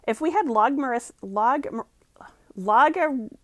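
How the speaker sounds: real stumble on "logmarith-", broken off into "log-, log-"; stumbling over pronunciation. Real, not acted. Reader tripping over "logmarith-" in the passage, stumbling. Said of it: "jeez, I can't pronounce this word".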